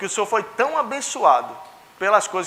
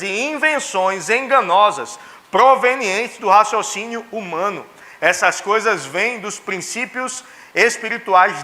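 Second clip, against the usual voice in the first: slow, measured pulpit reading; scripture reading; slower than usual. Real, not acted. Preacher reading Colossians to the congregation, slow and solemn. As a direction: read the verse out deliberately, word by word.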